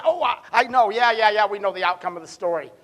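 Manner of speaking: impatient mock reply, speeding up at the end; mock know-it-all. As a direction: play a smug listener who already knows the ending. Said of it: "I know you say".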